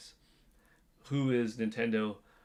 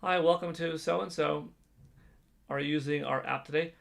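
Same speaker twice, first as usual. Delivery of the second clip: drive-through worker; 5 semitones higher than usual. Pretend. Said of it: "so when they say".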